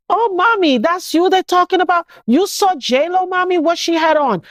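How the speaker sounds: gossipy nurse. Retold or imitated. Nurse leaning over to the shot patient about J Lo, gossipy. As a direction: lean in for celebrity gossip. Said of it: "this nurse leaned over and said".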